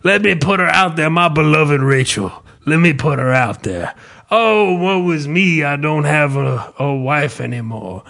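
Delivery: a lightly voiced lament; mock grieving widower. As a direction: play the sad husband over the top. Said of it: "he's like".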